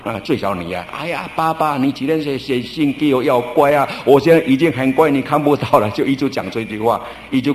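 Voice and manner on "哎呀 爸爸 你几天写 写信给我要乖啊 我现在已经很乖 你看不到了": lightly acted pleading little daughter; mild retold wail to a father, slightly raised; imitating crying child. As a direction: plead like a child, without real sobs. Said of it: "哇，一直哭".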